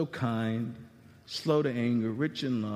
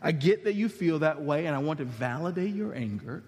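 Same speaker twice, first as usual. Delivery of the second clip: gentle validating God; 3 semitones lower than usual. Pretend. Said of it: "God says".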